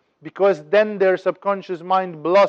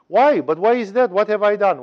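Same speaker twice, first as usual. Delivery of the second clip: higher-pitched, mildly protesting fox; 4 semitones higher than usual. Acted. Fox asks the lion why it must die, mild protest. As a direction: plead innocence in a raised voice.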